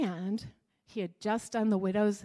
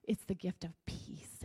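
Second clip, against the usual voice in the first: tender; 2 semitones lower than usual. Acted. Jesus offers gift of peace.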